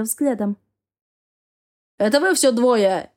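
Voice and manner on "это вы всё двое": mock shout. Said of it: "звучно крикнул Яр".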